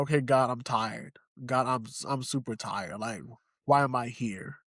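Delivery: a worn-out man praying to God, fading; exhausted prayer. Retold or imitated. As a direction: let the words drain out tiredly.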